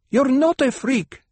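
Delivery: sharp, loud and high retort; snapped. A narrator's reading. Hera defending the child, a loud high snap. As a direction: snap it back fiercely. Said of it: "Hera snapped".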